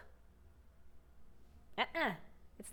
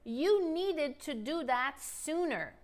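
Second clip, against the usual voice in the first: slow, clear model sentence; deliberate teacher pacing; slow model line; 2 semitones higher, slower than usual. Shown as a demonstration. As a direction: model it slowly. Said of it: "Let's spice things up".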